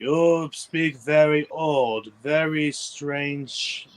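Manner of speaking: put-on slow, halting Asian accent; Asian cadence. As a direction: imitate an Asian cadence slowly. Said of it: "he still has that Asian cadence".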